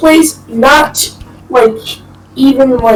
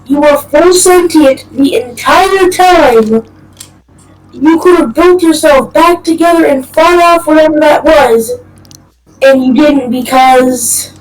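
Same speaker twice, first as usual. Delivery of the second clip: incredulous demand; 3 semitones higher than usual. Pretend. Demanding an explanation from Freddy.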